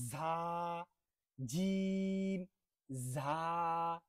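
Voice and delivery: জিম stretched very long and loud, ঝা clear; jim and jha drill. Shown as a demonstration. Teacher drilling জিম versus ঝা aloud. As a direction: alternate জিম and ঝা slowly. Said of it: "মাথায় রাখতে হবে".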